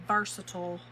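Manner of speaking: "versatile" ending in a quick "tl"; short ending on versatile. Shown as a demonstration. Crafter chatting about her project, versatile with short ending. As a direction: say "versatile" as VER-suh-tl. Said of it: "However y'all say it".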